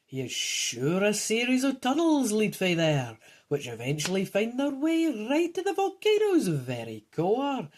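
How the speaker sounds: lightly voiced old man with Scots words; a touch of old-geezer character. Old man urges friend's son on, lightly voiced old geezer. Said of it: "it's the old geezer speaking".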